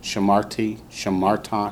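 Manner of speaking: shaMARti, shaMARta, middle syllable accented; accent MAR in Shamarti and Shamarta; both words stressed on the second-to-last syllable. Shown as a demonstration. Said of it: "tells you where the accent goes".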